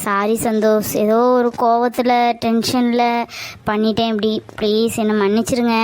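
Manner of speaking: low, remorseful apology; contrite pleading. Acted. Girlfriend begging Santhosh to forgive her mistake, contrite pleading.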